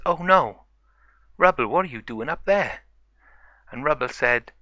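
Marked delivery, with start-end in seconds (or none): 0.1-2.8 story character's startled, pitched-up reaction; alarmed discovery. Acted. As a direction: call up in alarm to a stranded friend. Finding friend stuck on roof.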